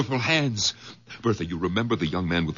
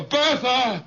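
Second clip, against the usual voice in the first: high call across the house; 14 semitones higher than usual. Acted. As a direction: call to her upstairs. Calling wife through house.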